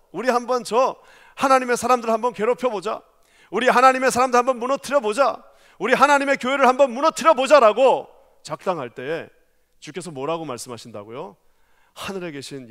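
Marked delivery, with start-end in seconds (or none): 0.1-8.1 loud, gleeful plotting rallying cry; conspiring crowd. Retold or imitated. People plotting to topple God's church, shouting eagerly. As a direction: egg each other on to attack, loud. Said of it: "인간들이 막 작당을 하면서".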